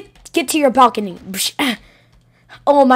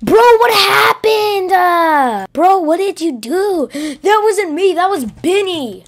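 high-pitched friend; 5 semitones higher than usual. Acted. New character reacts to chaos.

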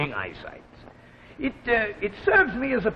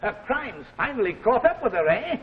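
gleeful excitement; 3 semitones higher than usual. Acted. Old man gloats over story climax.

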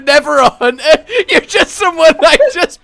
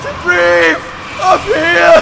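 mock panicked shouting. Panicked shouting while falling.

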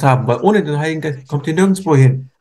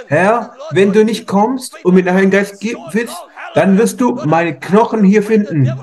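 desperate prayer. Retold or imitated. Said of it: "Ihr müsst zu Gott kommen und sagen".

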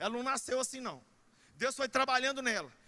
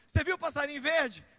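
a touch higher and louder, teasing; teasing old saying; 3 semitones higher, 4 dB louder than usual. Retold or imitated. Old folks teasing a girl in love, lightly playful. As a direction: tease her lightly with the old phrase. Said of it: "Não é assim que falava?".

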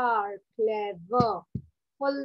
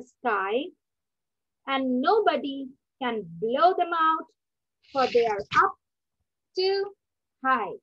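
poem recitation. Acted. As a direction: recite each phrase with pauses. Teacher recites poem again.

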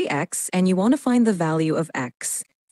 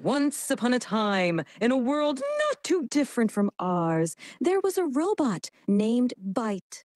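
heavy dramatic storytelling; 4 semitones higher, 4 dB quieter than usual. Shown as a demonstration. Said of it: "Let's amplify the drama".

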